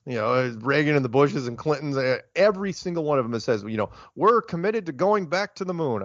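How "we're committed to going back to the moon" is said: lightly voiced presidential pledge, slightly higher; a hint of a politician's voice making a promise; Obama impersonation. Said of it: "kind of doing an Obama impersonation".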